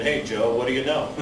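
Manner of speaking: tired sing-song imitation of the pals; weary mock repeat. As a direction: mimic the line like you've heard it a thousand times. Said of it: "I'm sick and tired of people saying".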